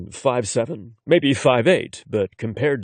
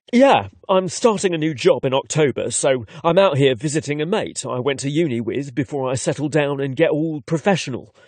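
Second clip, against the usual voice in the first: put-on London accent; 3 semitones higher than usual. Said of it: "his London accent".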